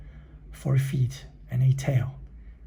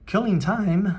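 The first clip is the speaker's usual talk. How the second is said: roaring dog; 7 semitones higher, 3 dB louder than usual. A narrator's reading. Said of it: "roared the dog".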